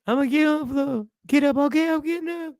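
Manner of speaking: high, tearful, rising to a wail; hammed-up sobbing terror; panicked crying plea. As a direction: beg the cops while bursting into tears. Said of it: "I'm like".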